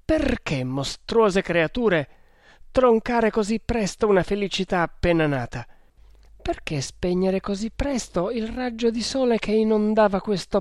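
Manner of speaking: high-pitched, impassioned lament; anguished plea. Acted. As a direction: plead desperately for your love. Ada begs in despair for love. (supplica disperata)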